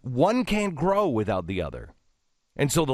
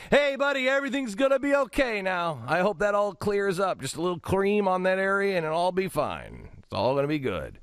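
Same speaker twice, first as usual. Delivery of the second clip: much higher, sing-song reassurance; mock cheerful call; 10 semitones higher than usual. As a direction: chirp it brightly to a stranger, not shouting. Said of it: "now I don't wanna shout it".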